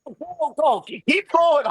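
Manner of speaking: high, eager go go go; retold coaching cheer, high pitched; excited cheering. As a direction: wave the runners on, laughing at yourself. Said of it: "I'm like".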